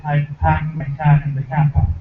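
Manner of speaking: slow, dropped R New England accent; New England accent, "packed my cat in the cat park" with R dropped. Shown as a demonstration. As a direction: say it like a Bostonian, no R sounds. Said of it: "In New England ... we say".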